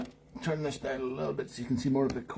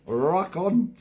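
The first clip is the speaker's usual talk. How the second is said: higher, louder shouted catchphrase; Bobby Ball catchphrase; 8 semitones higher, 7 dB louder than usual. Retold or imitated. Host doing his comic's catchphrase for viewers, loud and high. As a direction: belt it out like a seventies comic. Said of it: "with his catchphrase".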